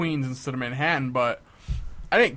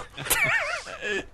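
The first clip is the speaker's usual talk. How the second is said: burst of laughter; 4 dB quieter than usual. Real, not acted. Laughing at the duck offer.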